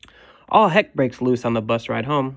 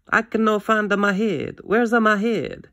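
grandma searching; 9 semitones higher than usual. Acted. Grandma hunting for her hat, flustered. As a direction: fret aloud in grandma's voice.

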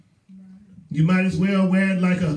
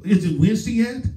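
acted impatient, higher-pitched question; eager excitement; 4 semitones higher, faster than usual. Churchgoer waking up before midweek service, eager excitement. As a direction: play someone who can hardly wait. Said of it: "You ought to be excited".

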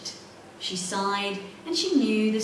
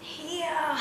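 muffled cry; 7 semitones higher, 3 dB quieter than usual. A narrator's reading. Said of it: "She tried to cry".

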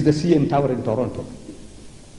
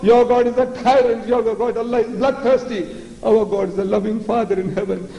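higher, preachy mocking of believers; mock pious Christian; 5 semitones higher than usual. Preacher mimicking Christians praising a loving Father, higher mock tone. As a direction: parrot the Christians in a sing-song higher voice. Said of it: "And the Christians say".

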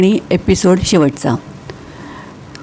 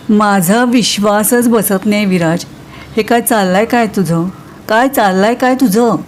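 mildly astonished. Acted. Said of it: "निधी एकदम आश्चर्याने".

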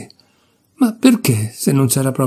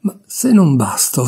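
bursting out. Acted. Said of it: "Alla fine proruppe".

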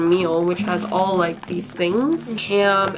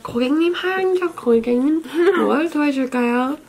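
polite hotel staff; 6 semitones higher, much faster than usual. Retold or imitated. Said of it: "They're like".

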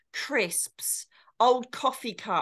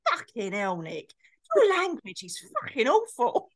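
scolding mum. Acted. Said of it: "This is my mum trying to educate me".

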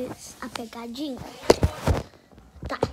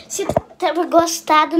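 louder restart; 5 dB louder than usual. Real, not acted. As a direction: restart it louder, like a proper outro. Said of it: "não, não".

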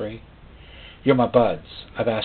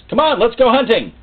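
the master calling; 12 semitones higher, 4 dB louder than usual. Acted. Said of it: "the master says".

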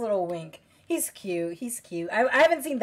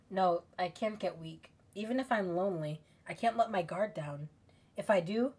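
quiet inner monologue; 4 semitones lower, 6 dB quieter than usual. Acted. Reads game's inner monologue.

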